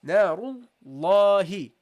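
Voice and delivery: Narullahi slow, long drawn la; extended recitation. Shown as a demonstration. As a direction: stretch the alif in Narullahi. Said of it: "You see, I extend it".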